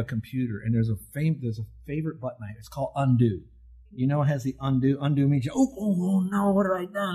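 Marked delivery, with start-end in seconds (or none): 5.5-7.1 higher, half-joking dismay; a light imitation of a panicked gasp; mock panic. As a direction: play a computer user suddenly realizing a mistake. Imitating someone's panic after a mistake.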